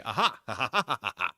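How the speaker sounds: loud mock gotcha laugh; police catching him out, laughing loudly in triumph; triumphant aha. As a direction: gloat with a big ha ha ha. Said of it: "police on the spot can say".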